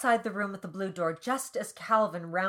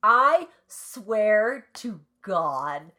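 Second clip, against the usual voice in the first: indignant outburst; 3 semitones higher, 7 dB louder than usual. Real, not acted. Reader reacting to being shushed, indignant.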